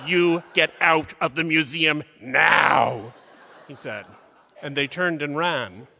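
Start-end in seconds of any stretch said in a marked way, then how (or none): 0.1-3.1 slow, emphatic shout, hammering the last word; shouted order. Retold or imitated. Museum curator ordering two women out of the museum, shouted order. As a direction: throw them out with a theatrical bellow.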